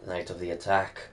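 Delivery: lightly voiced Scottish mentor with a bad accent; terrible Scottish accent. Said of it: "There's my terrible Scottish accent".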